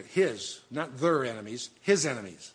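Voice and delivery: "His" set apart, contrasted with "their"; stress on HIS. Shown as a demonstration. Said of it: "you see the seed singular".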